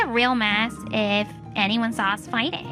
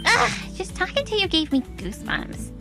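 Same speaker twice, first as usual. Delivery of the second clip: acted disgust; 8 semitones higher than usual. Relative shows disgust at brother.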